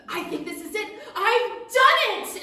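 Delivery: high, loud, triumphant little gnome. Acted. Gnome alchemist cries out over his bubbling potion, high and loud. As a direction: crow it like a tiny gnome who succeeded. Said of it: "And just as he says".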